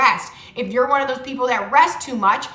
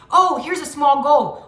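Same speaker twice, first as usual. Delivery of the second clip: slow, upbeat, louder spotting of a goal; excited discovery; 3 semitones higher, 4 dB louder than usual. Shown as a demonstration. Coaching viewers, spotting a small goal with mild delight. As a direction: greet each small goal like a happy find. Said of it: "let's start thinking about them as small goals".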